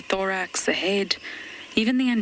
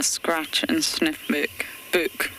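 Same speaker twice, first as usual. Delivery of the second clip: struggling with speech; much slower than usual. Real, not acted. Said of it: "I'm still struggling with my speech".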